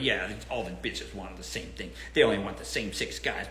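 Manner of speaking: mock loser friend. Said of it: "be like".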